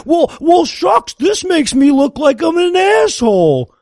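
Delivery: whiny aw-shucks voice; wounded, squirmy hick; wounded whiny dad. Retold or imitated. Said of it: "Dad being all wounded and squirmy".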